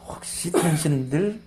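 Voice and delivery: slow, teasing taunt; sly jab. Acted. Blind man teasing the Pharisees, sly and slow. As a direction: needle them with a sly question. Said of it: "약을 팍 찌르는 거예요".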